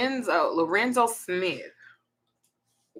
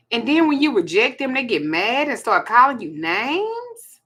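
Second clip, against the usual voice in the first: exasperated; 4 semitones higher, 5 dB louder than usual. Real, not acted. Venting about rejected men's reactions.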